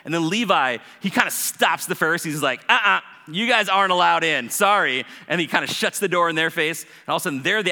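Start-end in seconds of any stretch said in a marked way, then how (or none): 2.7-5.1 loud, firm turn-away; firm refusal. Acted. Levi stopping the Pharisees at the door, firm refusal. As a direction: block them with a loud no.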